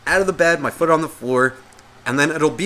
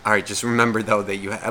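nice; 3 semitones lower, 4 dB quieter than usual. Retold or imitated. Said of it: "I get all nice".

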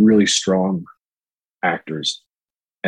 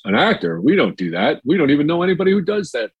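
incredulous father; 8 semitones higher than usual. Retold or imitated. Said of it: "And he goes".

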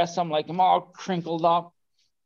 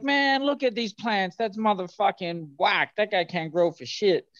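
high mocking scoff, retelling others; 6 semitones higher than usual. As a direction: sneer at the plants in a raised pitch. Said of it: "they're like".

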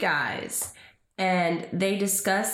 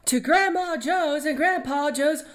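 grandma voice; 4 semitones higher than usual. Acted. Fruit stand old couple skit.

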